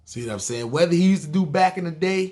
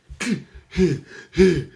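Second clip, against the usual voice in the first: mock huffing; 4 semitones higher, 4 dB louder than usual. Mimics Brad huffing through lifting.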